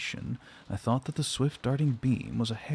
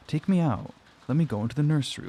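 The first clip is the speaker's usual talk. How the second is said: higher, rushed plea to be let out; frightened cry; 4 semitones higher, 3 dB louder, faster than usual. Acted. Frightened girl begging the servants to take her out, rushed high cry. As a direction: beg fast and high, panicked. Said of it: "was my cry".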